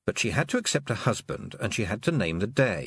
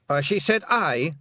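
loud, higher Scottish pixie shout; 7 semitones higher, 4 dB louder than usual. Acted. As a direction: shout him down. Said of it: "Rob Anybody shouted".

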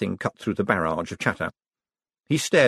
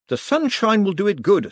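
gentle coaxing; 11 semitones higher, 3 dB louder than usual. A narrator's reading. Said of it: "taking him gently in tow".

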